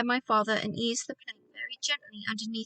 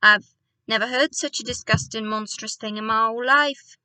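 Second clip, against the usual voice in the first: angry; 5 dB louder than usual. Acted. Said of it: "jumping up and down with fury".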